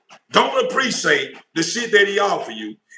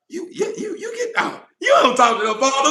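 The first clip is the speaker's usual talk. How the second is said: furious shout; 8 semitones higher than usual. Retold or imitated. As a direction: drive them out, yelling at the top. Voicing the Father's outburst.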